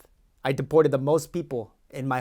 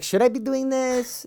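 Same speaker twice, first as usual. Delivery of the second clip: doubting self; 10 semitones higher, slower than usual. Retold or imitated. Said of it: "I was like".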